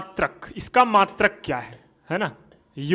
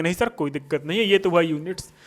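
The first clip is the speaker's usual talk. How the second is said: student reply; 5 semitones lower, 4 dB quieter, much faster than usual. Pretend. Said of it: "आप बोलोगे".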